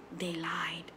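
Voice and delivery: retold breathless whisper of a warning. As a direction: whisper it like a secret in a cousin's ear. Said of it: "Dia bisik". (bisikan amaran sepupu kepada budak)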